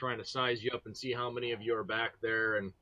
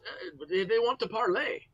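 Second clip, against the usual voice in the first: higher, louder acted disbelief; incredulous enemy leader; 9 semitones higher, 4 dB louder than usual. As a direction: voice a leader baffled by the request. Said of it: "he says".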